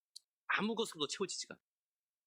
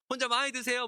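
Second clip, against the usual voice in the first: higher, louder sneering dig; mock sarcastic jab; 8 semitones higher, 5 dB louder than usual. Preacher voicing Peninnah's jab at Hannah, mock sarcastic. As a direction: needle her with fake politeness. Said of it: "뭐 이런 얘기 했겠죠".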